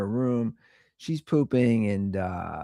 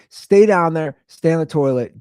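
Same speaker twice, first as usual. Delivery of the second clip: yelling down; 4 semitones higher, 6 dB louder than usual. Retold or imitated. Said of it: "I keep yelling".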